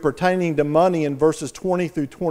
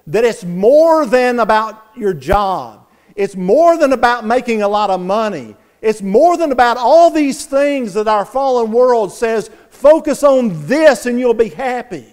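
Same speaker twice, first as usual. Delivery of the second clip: louder, higher, driving sermon voice; impassioned preaching; 5 semitones higher, 6 dB louder than usual. Acted. Preacher warning his congregation, loud and impassioned. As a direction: hammer the point home.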